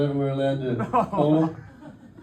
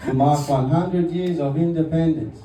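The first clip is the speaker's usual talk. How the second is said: lightly put-on Spanish-accented tour guide; a touch of a Peruvian guide's accent; mock Peruvian accent; 4 semitones higher than usual. Guide showing the statue, in a light mock Peruvian accent. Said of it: "I'm working on the accent".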